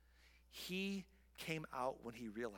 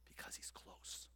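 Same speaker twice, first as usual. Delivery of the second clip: slow unvoiced whisper; softly whispered; 13 dB quieter than usual. Shown as a demonstration. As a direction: hush it, close. Preacher demonstrates whisper.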